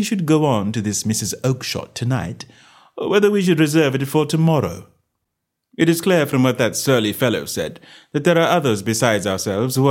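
a hint of a brisk detective; measured gentleman detective; Holmes, lightly voiced. Holmes speaking to Watson.

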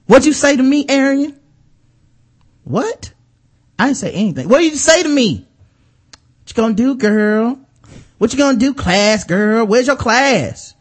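acting out a catty squabble; mock reality show fight. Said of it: "I'll give my impression of it".

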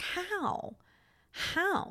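high, disbelieving questions; incredulous. Retold or imitated. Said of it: "I'm like".

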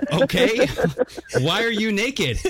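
high, laughing disbelief; high and giggling, half shouted; laughing question. Retold or imitated. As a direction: ask it while cracking up. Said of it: "And I go".

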